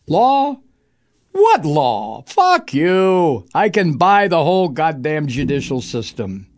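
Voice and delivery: smug tycoon sneering at the law; brash, dismissive rich man; arrogant billionaire. Retold or imitated. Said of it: "That's the attitude on the part of the billionaires".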